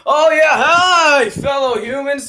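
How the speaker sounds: slow, loud, odd greeting; alien greeting. Acted. Robotic-ish alien greeting.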